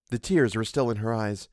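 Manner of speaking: plain reading voice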